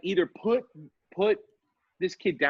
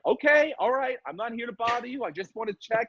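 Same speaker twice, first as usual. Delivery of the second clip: higher, gentle reassurance; placating; 8 semitones higher than usual. Retold or imitated. Neighbour reassuring the kid through the door, placating.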